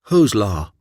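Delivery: a mild shout of outrage. Acted. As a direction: throw the question back at him. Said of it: "Black shouted".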